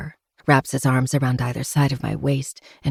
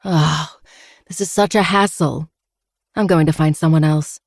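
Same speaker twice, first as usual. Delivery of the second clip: exaggerated boredom; 5 dB louder than usual. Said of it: "I release a dramatic sigh".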